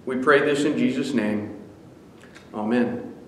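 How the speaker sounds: earnest spoken prayer, rising at the start. Acted. Pastor praying for the flock, earnest prayer voice. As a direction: pray it out to the congregation.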